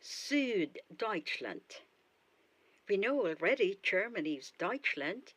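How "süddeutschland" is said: 1 slow demo. Shown as a demonstration. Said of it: "Southern Germany".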